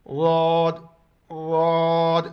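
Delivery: ضاد with the side of the tongue, not د or ز; ضاد pronunciation. Shown as a demonstration. Teacher to students, demonstrating ضاد pronunciation. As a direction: say ضاد with the tongue touching the molars. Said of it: "اس طرح اس کو پڑھنا ہے".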